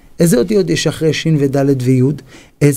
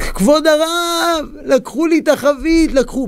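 much higher, slow crying plea; distraught plea; 12 semitones higher than usual. Acted. Poor man to the rebbe, crying high over his barrel. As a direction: wail to the rabbi that all is lost. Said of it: "עוד פעם בוכה".

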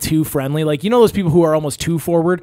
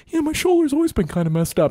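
pitched up, put-on gullible customer; gullible buyer voice; 11 semitones higher than usual. Customer swallowing the sales pitch, in a higher gullible voice. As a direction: play the easily fooled mark, higher.

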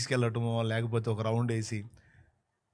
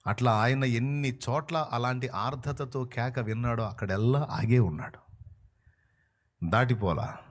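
normal talking voice

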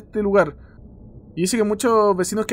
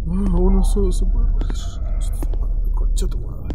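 tense hushed whisper. Real, not acted. Scared player curses under breath, whisper. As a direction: breathe the words in fear.

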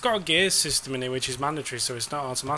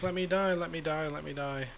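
mock plea sinking to softer and softer; fading mock plea; 4 dB quieter than usual. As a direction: give up bit by bit, voice dying away. Begging cars to hit him.

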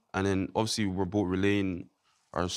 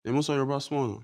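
Nigerian accent; 3 semitones higher than usual. Shown as a demonstration. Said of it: "Do you speak Yoruba".

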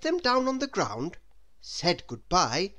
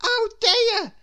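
high, loud frightened gasp; boy gasping at crocodile teeth; gasped in fright; 8 dB louder than usual. A narrator's reading. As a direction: gasp at the open jaws. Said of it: "gasped Jack".

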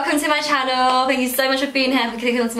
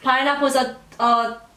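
mouth propped open. Real, not acted. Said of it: "I cannot hear a word".

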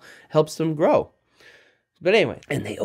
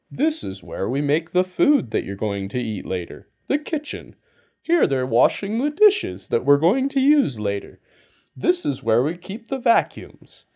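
lightly voiced cheery tour guide; mock tour guide. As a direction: play a chirpy guide showing off dull rooms. Mock tour guide showing rooms.

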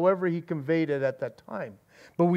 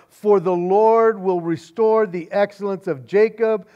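booming voice; 3 dB louder than usual. Acted. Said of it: "loud, booming voice once again".

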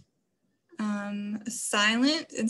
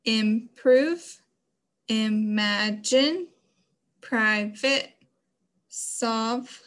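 robot talk; 3 dB louder, much slower than usual. Shown as a demonstration. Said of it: "let's robot talk".

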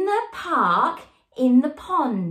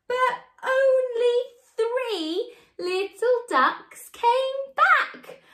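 sad; 10 semitones higher, much slower than usual. Acted. Sad turn in the song.

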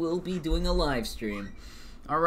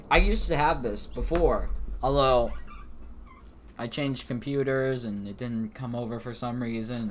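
talking while chewing popcorn; munching popcorn; 4 dB quieter than usual. Real, not acted. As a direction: mouth full of popcorn. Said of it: "Sorry, I'm eating popcorn".

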